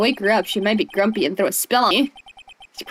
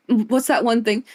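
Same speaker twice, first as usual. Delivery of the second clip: whisper. Real, not acted. Trying to recall a lyric.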